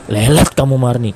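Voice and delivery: loud teacher telling the pupil off; teacher scolding. Acted.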